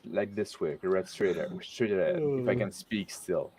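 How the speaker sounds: tipsy, slightly slurred speech; words loosening from drink. Real, not acted. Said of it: "I'm getting drunk".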